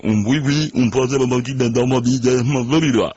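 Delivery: nonsense syllables in a lightly put-on voice; mock foreign gibberish. Joke teller delivers the punchline, mock gibberish tongue. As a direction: babble it as a fake language. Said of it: "That's, that's black Yiddish".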